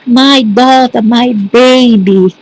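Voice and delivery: a mild imitation of a mother's wail at the funeral; retold wailing. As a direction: imitate the sister wailing, stretching the last words. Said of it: "she was wailing there".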